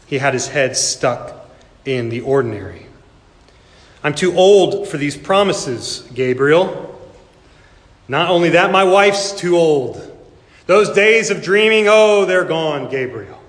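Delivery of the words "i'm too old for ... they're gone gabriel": put-on slow, pleading complaint of an old man; tired old priest objecting, slowly; weary old Zechariah. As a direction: lament that the dreaming days are gone.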